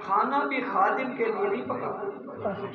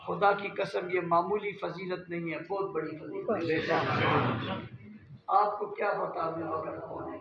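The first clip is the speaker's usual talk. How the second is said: tearful hush; 4 semitones lower, 4 dB quieter than usual. Real, not acted. Emotional oath, lowering voice.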